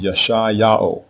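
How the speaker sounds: Yashai Yao as yah-SHY YAH-oh; correct pronunciation. Shown as a demonstration. Teacher models Isaiah's name, Yashai Yao as yah-SHY YAH-oh. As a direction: sound out Yashai Yao, long I then YAH-oh. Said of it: "so we pronounce his name as".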